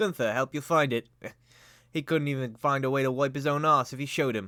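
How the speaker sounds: laughing while talking, character voice. Voicing a cart-pushing character who scoffs at the player's request: laughing in character while talking. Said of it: "he kinda, like, laughs at this".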